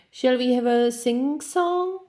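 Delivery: high, eager little lion voice; a bright young lion asking to sing. Acted. Lion character voice.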